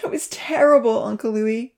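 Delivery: breathy lament, half whispered. A narrator's reading. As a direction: grieve it out in a trembling whisper. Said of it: "Rosa lamented".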